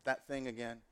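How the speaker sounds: low, soft sigh of self-doubt; mildly dejected muttering to oneself; resigned inner voice. Acted. Voices a discouraged inner thought.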